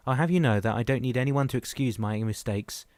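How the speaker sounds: angry snap. Acted. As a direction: bite back at the little man. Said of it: "he snapped angrily".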